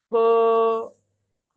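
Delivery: খ as a long breathy H syllable; Chinese H sound. Shown as a demonstration. Teacher showing how H is pronounced, Chinese H. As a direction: let air rub through a drawn-out খ. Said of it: "এইচ এর উচ্চারণ কিসের মতো হবে".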